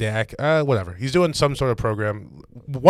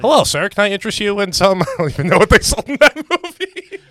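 higher salesman-style white guy voice; a higher, chirpy phone-sales white guy; 8 semitones higher, 4 dB louder than usual. Pretend. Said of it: "Bro, that's a good white voice".

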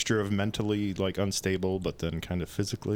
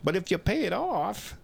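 slick used car salesman; 10 semitones higher than usual. Acted. Salesman bit.

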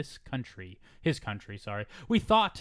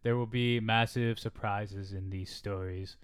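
Trump impression; 4 semitones lower than usual. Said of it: "that could have been, like, a Trump quote".

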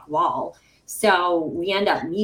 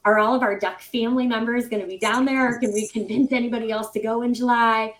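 eager; 3 semitones higher, 5 dB louder than usual. Retold or imitated. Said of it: "I'm like".

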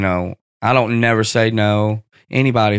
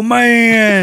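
excited fan; 11 semitones higher, 5 dB louder than usual. Retold or imitated. Fan greeting him excitedly.

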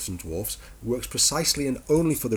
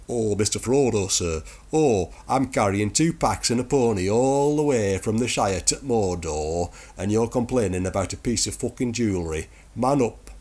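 fed-up Sam. Retold or imitated. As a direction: scold him like a tired servant.

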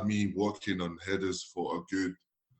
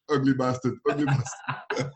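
broken English retort; 2 semitones higher than usual. Retold or imitated. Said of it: "the only thing I could say back then".

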